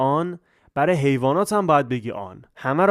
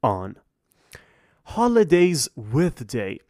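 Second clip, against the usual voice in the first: slow heading read; much slower than usual. Shown as a demonstration. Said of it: "teacher reads heading slowly".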